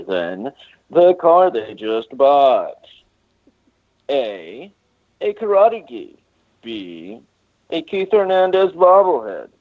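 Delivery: slow, showy quiz host read; game show host voice. Pretend. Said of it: "I love the game show host voice".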